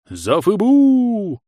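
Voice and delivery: loud, slow, high drawn-out battle howl; fearsome howl. Acted. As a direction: charge yelling like a war cry. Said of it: "взвыл дед страшным голосом".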